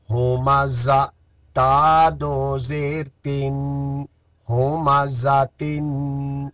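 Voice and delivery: slow, measured Qaida spelling chant; syllable recitation. Shown as a demonstration. Teacher drilling Qaida syllables for students, measured chant. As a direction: spell each letter out for the pupils.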